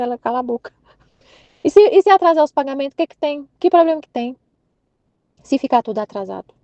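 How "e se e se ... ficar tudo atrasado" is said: bronca em si mesma. Retold or imitated. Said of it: "comecei a brigar comigo mesma".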